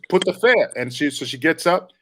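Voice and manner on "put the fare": put-on higher, curt Jamaican-accented demand; lightly put-on Jamaican lady's accent. Jamaican lady telling a passenger to pay, Jamaican accent. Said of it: "Jamaican lady goes".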